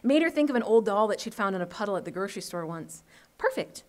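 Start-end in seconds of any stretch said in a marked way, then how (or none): 3.4-3.8 pleased satisfaction. Acted. Girl admires her handiwork.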